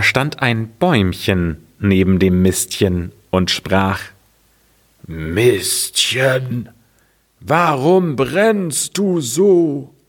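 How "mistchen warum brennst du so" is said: high, slow little tree voice; a small tree asking in wonder; high tree voice asking slowly. Acted. Little tree asks the heap.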